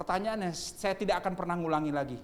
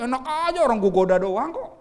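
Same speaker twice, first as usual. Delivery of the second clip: Satan protesting; 6 semitones higher, 10 dB louder than usual. Acted.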